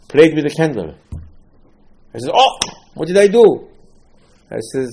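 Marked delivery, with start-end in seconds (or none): 2.3-3.7 dismay. Acted. Sinner's dismay, acted quote.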